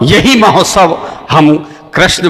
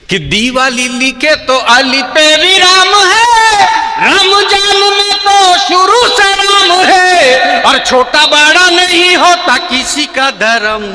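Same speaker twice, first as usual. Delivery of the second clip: high declaimed verse, slow in places; poem recital; 8 semitones higher than usual. Acted. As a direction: proclaim it like a stage poet.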